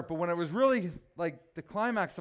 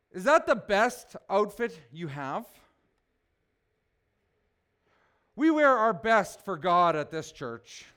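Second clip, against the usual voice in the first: stern rebuke; 4 dB louder, slower than usual. Retold or imitated. Angry vein guy scolds a visitor.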